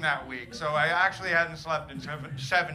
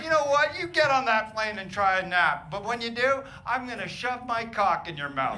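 comic tirade, opening on a raised pitch; confrontational threat; 4 semitones higher, 4 dB louder than usual. Acted. Tired dad threatens a napping passenger, confrontational.

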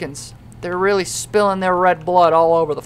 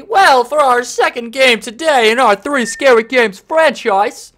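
show announcer; 4 semitones higher, 4 dB louder than usual. Acted. Announces next game, reads intro.

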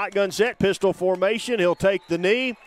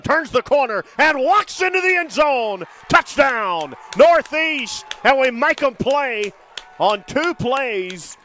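touchdown call; 3 semitones higher than usual. Real, not acted.

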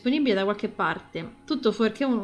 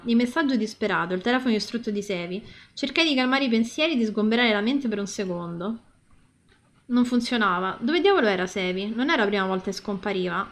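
story narration. Acted. Reads the game's story aloud.

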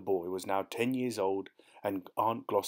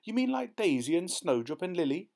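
shocked disbelief; 9 semitones higher, 3 dB louder than usual. A narrator's reading. Boy horrified about the cows.

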